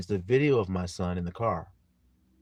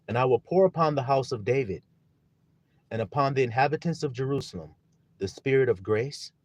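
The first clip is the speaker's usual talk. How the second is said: scripture reading; 3 semitones higher, 5 dB louder than usual. Acted. Reads a verse aloud.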